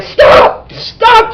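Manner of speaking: high, loud screamed plea; mock screaming. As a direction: act out a desperate yell in a strained high voice. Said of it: "he's yelling and screaming".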